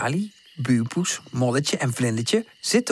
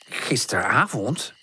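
slow, puzzled echo; drawn-out surprise at the news; surprised; 4 semitones lower than usual. Acted. Tante hearing of the night, surprised and slow. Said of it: "zegt tante verbaasd".

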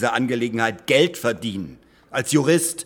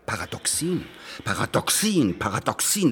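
disgusted repetition. Acted. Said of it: "da kriege ich so einen leichten Ausschlag".

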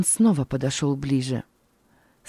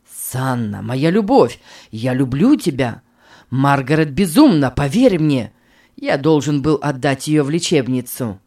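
desperate husband pleading; 2 semitones lower, 5 dB louder than usual. Acted. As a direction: beg her to believe you. Bernhard pleads loudly.

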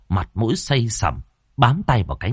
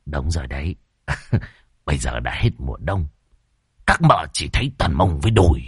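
pouting tease; 6 semitones lower, faster than usual. A narrator's reading. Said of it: "dẩu mỏ lên".

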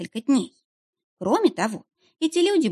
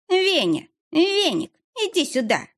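calling shout; 10 semitones higher, slower than usual. A narrator's reading. Wife yelling for her husband over her shoulder. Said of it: "крикнула через плечо".

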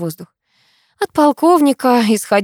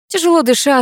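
usual speaking voice

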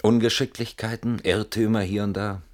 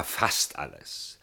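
slow, whispered, trailing off; a hushed, reluctant aside; muttered admission; 5 semitones lower, 5 dB quieter, much slower than usual. Acted. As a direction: let it slip out softly. Admission after protesting honesty.

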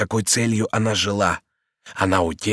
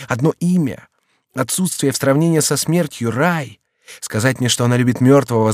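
raised, pleading voice of a despairing lover; passionate young count; 7 semitones higher, 5 dB louder than usual. A narrator's reading. Young count to the servant, in despairing outcry. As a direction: pour out the lover's despair, loud and high. Henri's passionate hope speech.

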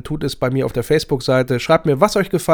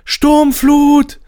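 much higher, louder alarm call; mock yell; 7 dB louder than usual. Hannover fan shouts a fake alarm, high yell. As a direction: cry it out as a fake warning. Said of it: "Und der sechsundneunziger ruft".

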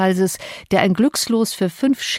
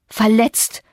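angry retort; 3 semitones higher than usual. Acted. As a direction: throw the word back at him in anger. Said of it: "rief ich zornig". (empörter, zorniger Ausruf)

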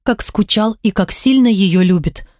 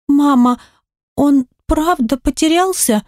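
put-on child voice; 6 semitones higher than usual. Disbelieving daughter, high.

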